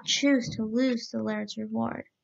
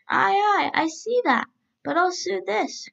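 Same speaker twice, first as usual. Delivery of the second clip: higher, louder, hurried cry of the tailor; the tailor calls out quickly and keenly; 8 semitones higher, 3 dB louder than usual. A narrator's reading. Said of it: "cried the tailor".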